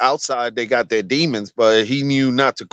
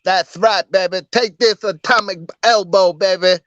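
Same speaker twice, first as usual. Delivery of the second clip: wrestler promo voice; 5 semitones higher than usual. Retold or imitated.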